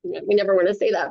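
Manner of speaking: plain reading voice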